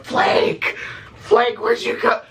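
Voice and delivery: drawn-out high mock call. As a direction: pretend to search, calling slowly. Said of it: "we're all going".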